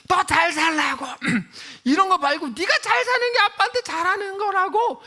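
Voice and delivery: very high, loud acted shouting; imitated angry father. Father throwing back his daughters' flowers, angry. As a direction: yell it as an exasperated, angry dad. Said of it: "집어 던지면서 화를 내고".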